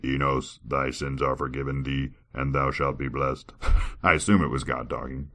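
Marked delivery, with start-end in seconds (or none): 0.0-3.5 God voice. Acted. God telling Enos his sins are forgiven, solemn. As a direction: speak as a calm, solemn God. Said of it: "So that I used my God voice".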